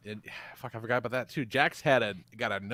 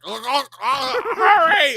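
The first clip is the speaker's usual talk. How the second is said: higher, louder gagging plea; choking on blood; 11 semitones higher, 10 dB louder, slower than usual. Retold or imitated. Boyfriend choking on blood begs for help, higher gagging plea. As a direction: gag out the words, then yell hurry. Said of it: "choking on blood".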